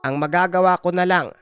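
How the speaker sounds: grandmother's firm, regretful verdict; Lola Bilay, grave healer. Acted. Healer says the baby is likely lost, grave and resolute. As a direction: break bad news firmly, as the village healer. Healer delivers bad news.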